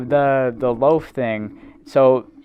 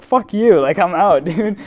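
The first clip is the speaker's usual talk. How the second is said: higher, louder mock-furious brush-off; retold angry outburst; 5 semitones higher, 4 dB louder than usual. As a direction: fling it back at security like he's fed up. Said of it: "he's getting mad over it".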